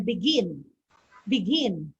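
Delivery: "begin" with the weight on "gin"; stress on second syllable. Shown as a demonstration. Teacher showing two-syllable verb stress, "begin" stressed on "gin". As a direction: lean on the last syllable of "begin". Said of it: "the stress is found in the second syllable".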